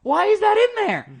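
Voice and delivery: very high, building to loud disbelief; hammed-up stunned bewilderment; astonished outburst. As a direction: demand an explanation, escalating to a cry. Acting out player's stunned reaction.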